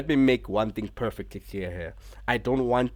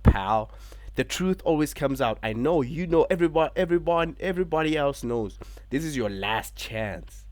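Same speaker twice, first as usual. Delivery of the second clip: Joker persona; 3 semitones higher, 5 dB louder than usual. Retold or imitated. Rollins threatening Punk, lightly voiced menacing Joker-style promo. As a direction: lightly play the unhinged champion. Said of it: "going into his Joker persona".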